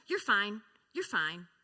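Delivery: firm brisk reassurance; a parent brushing off a child's scraped knee; dismissive parent. Retold or imitated. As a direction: wave off the fall. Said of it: "I hear that so much".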